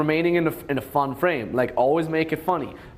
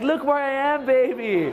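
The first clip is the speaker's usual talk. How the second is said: higher, laughing proud call; excited girlfriend; 7 semitones higher than usual. Retold or imitated. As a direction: show off to him, giggling.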